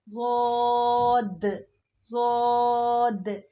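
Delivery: "वोद" drawn slowly and heavy, ending on a bouncing d; dwaad with d ending. Shown as a demonstration. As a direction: end "वोद" with a clear d. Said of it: "एंड में दाल की sound आएगी". ("वोद" अंत में दाल की आवाज़)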